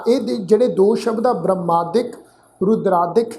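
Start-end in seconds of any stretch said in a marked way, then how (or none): 1.3-3.3 ਬ੍ਰਹਮਾਦਿਕ and ਰੁਦਰਾਦਿਕ spelled out syllable by syllable, a touch lower; each word set apart with a small rise; careful pronunciation. Shown as a demonstration. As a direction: isolate ਬ੍ਰਹਮਾਦਿਕ, ਰੁਦਰਾਦਿਕ for the students. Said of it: "ਇਹਨਾਂ ਸ਼ਬਦਾਂ ਦਾ ਖਾਸਾ ਖਿਆਲ ਰੱਖਣਾ".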